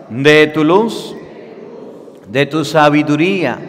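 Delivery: slow, loud prayer for the congregation to repeat; call-and-response prayer, slow and solemn; leading a prayer. Acted. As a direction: pray aloud line by line, slowly. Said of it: "Digan todos después de mí".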